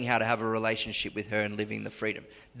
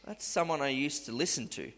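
quiet inner voice; 2 semitones higher, 7 dB quieter than usual. Retold or imitated. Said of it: "It's like".

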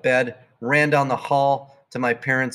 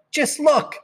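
amused mom. Acted. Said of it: "started to laugh".

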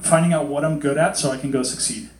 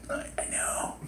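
very soft, whispered aside; acted knowing reply; 16 dB quieter than usual. God answering a reluctant believer, hushed. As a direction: whisper it back gently.

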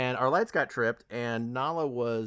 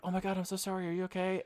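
mock concern; 6 semitones higher, 6 dB quieter, faster than usual. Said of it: "Melissa McCarthy's like".

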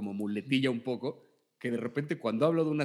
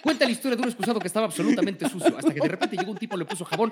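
fast, laughing review pitch; TikTok reviewer voice; 5 semitones higher than usual. Pretend. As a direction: narrate it like a breathless trailer. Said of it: "al estilo de Javier Ibarreche".

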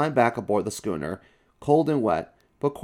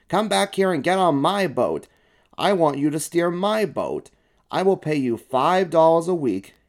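high, insistent, raised-voice plea; yelling; 7 semitones higher, 4 dB louder than usual. A narrator's reading. Sulky boy wants Stuart to steer his boat, yelling. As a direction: call out an eager demand. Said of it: "he yelled to Stuart".

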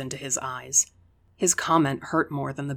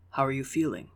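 distracted calm; faster than usual. A narrator's reading. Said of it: "A distracted calm sat in his voice".

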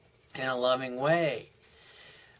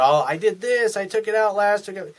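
higher, louder, indignant self-defence; defensive rationalizing; 7 semitones higher, 5 dB louder than usual. Retold or imitated. Husband defending himself to nagging wife, indignant. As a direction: protest your innocence. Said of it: "the guy starts rationalizing with her".

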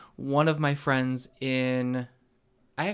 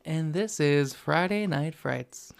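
horror host; slower than usual. Pretend. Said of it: "my ghoul impression was flaccid".

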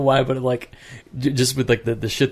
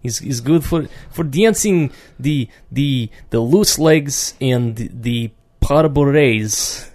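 put-on Russian accent; 3 semitones higher than usual. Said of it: "doing Russian accents".

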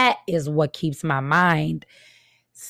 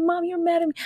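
put-on high girl voice; 12 semitones higher than usual. Mom imitating the neighbor girl asking if mom is mad, high pitched. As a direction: ask it like a surprised little girl, high pitched. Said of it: "She called me mom. I said".

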